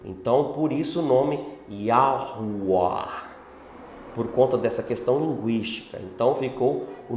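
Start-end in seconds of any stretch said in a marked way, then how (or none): 0.5-3.3 "Yahuwah" slow, W as O-U; slow name demo. Shown as a demonstration. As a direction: say "Yahuwah" slowly with O-U. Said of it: "teria um som de O U". ("Yahuwah" devagar, W como O U)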